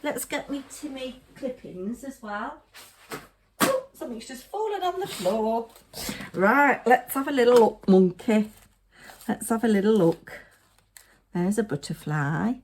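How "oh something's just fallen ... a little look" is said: louder, brighter put-on voice; cooing like talking to a pet; silly voice. Crafter talking to her monkey in a silly louder voice. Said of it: "I don't know why I'm talking like that".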